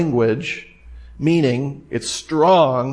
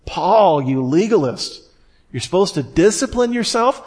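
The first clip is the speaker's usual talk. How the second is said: feigned incredulity, pitched up into a high question; mock accusation; 5 semitones higher than usual. Preacher playing a critic scolding Paul, mock incredulous. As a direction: act scandalized, rising sharply at the end.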